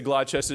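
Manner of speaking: Gloucester said as GLAW-chester; spelled-out pronunciation. Shown as a demonstration. Host shows the outsider's mistake, Gloucester said as GLAW-chester. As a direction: say Gloucester as written, with a "chester" ending. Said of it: "You're an idiot".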